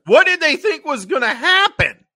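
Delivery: high, loud disbelief; incredulous. Real, not acted. Mocking the cheap fight scene, high loud disbelief. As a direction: throw up your hands at it. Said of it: "incredulous rant".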